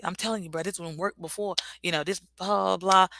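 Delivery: lightly voiced con artist sweet-talk; spitting good game. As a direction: sell it a little like a hustler. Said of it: "how they say it, spitting good game".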